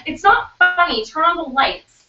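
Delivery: high, upset protest, retold; scared. Scared friend protesting at the laughing, high upset imitation. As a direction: imitate a frightened friend pleading with gigglers. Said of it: "Holly kept getting scared".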